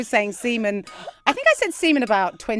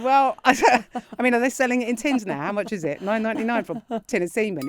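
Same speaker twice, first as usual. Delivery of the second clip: teasing mockery; 2 semitones higher than usual. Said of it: "I thought I was being really funny".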